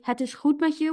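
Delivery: Het is goed met je with a teasing Dutch undertone; a knowing, slightly patronising Dutch tone; mild teasing reassurance, the word met lifted. Shown as a demonstration. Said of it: "when you say it in Dutch".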